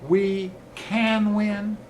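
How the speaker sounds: slow, drawn-out chant swelling into a loud shout; building rally shout. Real, not acted. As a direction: build each "win" bigger until the room roars. Rally closing chant to crowd.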